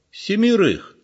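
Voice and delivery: high, startled echo of the number; old man can't believe what he hears; shocked question. A narrator's reading. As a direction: repeat it in disbelief.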